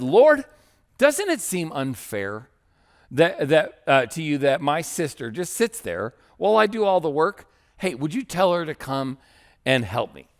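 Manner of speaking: aggressive-aggressive Martha, Lord cried out far above the rest; aggressive complaint. Retold or imitated. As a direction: open with an exasperated cry of Lord, then keep pressing. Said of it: "the aggressive-aggressive".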